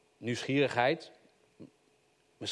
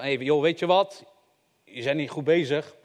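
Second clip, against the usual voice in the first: exaggerated stranger; 3 dB louder than usual. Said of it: "Gechargeerd staat er niet".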